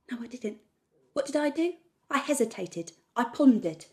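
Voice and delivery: very loud, worked-up declaration; fired-up, emphatic ranting; defiant rant. Acted. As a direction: hammer it out loudly, daring them to watch. Rant builds to a dare.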